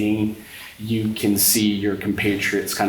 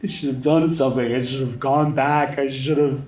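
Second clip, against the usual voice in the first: louder, higher and fast, guilt spilling out; distraught outburst; 6 semitones higher, 3 dB louder than usual. Acted. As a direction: blurt it, rising to a wail. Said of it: "almost cry in a way".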